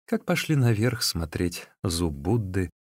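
ordinary delivery

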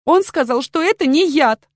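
accused maid cries out her defense; cry out. Acted. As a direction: blurt it out in a panic. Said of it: "вскрикнула Грета".

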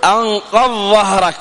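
أنقض ظهرك with the ض and ظ merged into one sound; wrong merged reading. Shown as a demonstration. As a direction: run أنقض into ظهرك with no break. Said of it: "لا تأتي وتقول".

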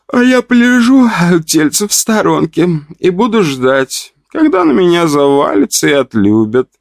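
put-on high, playful giggly girl; giggling. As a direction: giggle it out teasingly. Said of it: "захихикала Настя".

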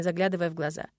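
plain reading voice

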